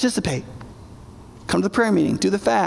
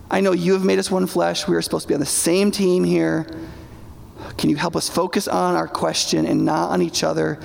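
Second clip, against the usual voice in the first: example prayer mid-argument; 4 semitones lower than usual. Retold or imitated. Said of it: "Stop me, like".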